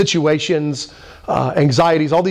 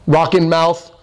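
ordinary talk, nothing marked

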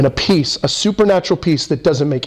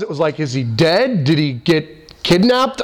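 ordinary talk

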